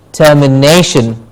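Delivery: "termination" said as a clear model, weight on "na"; stress before -tion. Shown as a demonstration. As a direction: stress the third syllable of "termination", ter-mi-NAY-shun. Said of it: "we stress the syllable before shin".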